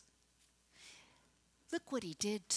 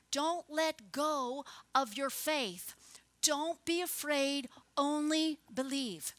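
louder, slow and emphatic urging; urgent exhortation; 3 semitones higher, 4 dB louder, slower than usual. Acted. Jesus urging a father to keep his faith, urgent exhortation. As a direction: press each phrase home with force.

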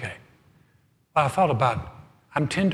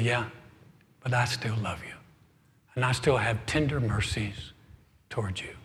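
softer and softer, into a whisper; tender whisper of God; 4 semitones lower, 8 dB quieter than usual. Pretend. God whispering love to a disobedient believer, fading soft. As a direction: fade to a loving whisper.

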